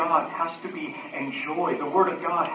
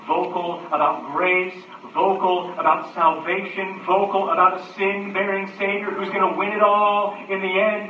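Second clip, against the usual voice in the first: building preaching; 4 dB louder than usual. Real, not acted. Preacher lists what to be vocal about, building preaching. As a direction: raise each phrase a step in pitch and force.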